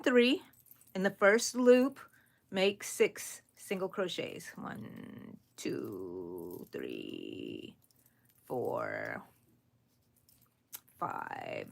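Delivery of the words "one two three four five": counting with yarn in mouth; muffled counting, mouth full. Real, not acted. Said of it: "I have something in my mouth".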